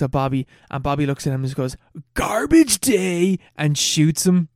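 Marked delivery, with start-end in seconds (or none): 2.1-3.4 slow, higher, hammed-up imitation of the film's killer; deadpan killer line. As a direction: drag it out like a corny movie villain. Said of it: "the most iconic, iconic scene".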